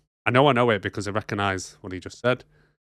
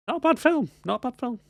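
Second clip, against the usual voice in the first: grudging admission; 11 semitones higher than usual. Real, not acted. Grudgingly admitting film is good.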